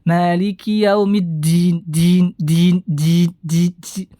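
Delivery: din with air puffed on the d; dal dengan hembusan udara; breathy dal error. Shown as a demonstration. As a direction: demonstrate the whispery airy dal. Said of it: "diberikan sifat hames".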